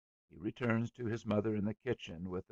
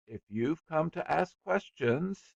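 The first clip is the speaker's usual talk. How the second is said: threatening; 9 semitones higher, 7 dB louder than usual. A narrator's reading. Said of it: "he began threateningly".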